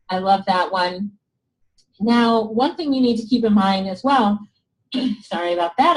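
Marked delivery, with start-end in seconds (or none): 2.0-6.0 hoarse, voice giving out. Real, not acted. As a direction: talk through a hoarse, tired voice. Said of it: "I'm losing my voice".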